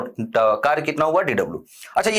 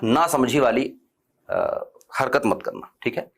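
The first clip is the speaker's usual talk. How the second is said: gentle warning; 5 semitones lower than usual. Real, not acted. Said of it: "बहुत ही प्यार से मैं बोल रहा हूं".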